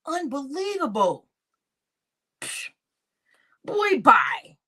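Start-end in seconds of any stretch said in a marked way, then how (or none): 3.6-4.6 whispered dismissal. Real, not acted. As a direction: shut him down in a sharp whisper. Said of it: "Somebody slam the door in the freaking face".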